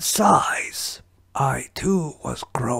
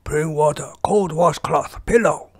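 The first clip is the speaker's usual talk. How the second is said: alarmed shouting; 3 semitones higher, 6 dB louder than usual. Acted. Master alarmed, calls for help.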